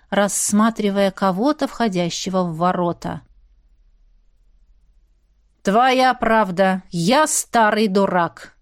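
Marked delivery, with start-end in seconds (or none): 5.6-8.6 slow, deliberate irony; slow wry concession. Acted. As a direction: drag it out mockingly. Elder wryly concedes.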